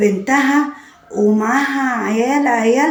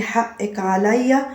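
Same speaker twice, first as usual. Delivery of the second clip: softer, slow soothing apology; 3 semitones lower, 6 dB quieter, slower than usual. Retold or imitated. Husband softly apologizing to his crying wife. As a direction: gently say sorry to calm her.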